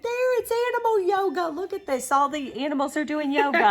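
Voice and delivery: high, quick, thrilled gushing; light laughing delight at cute fabric; retelling finding the fabric, gushing excitedly. Retold or imitated. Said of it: "I went".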